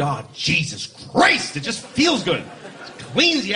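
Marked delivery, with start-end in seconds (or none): 0.0-1.6 satisfying curse. Shown as a demonstration.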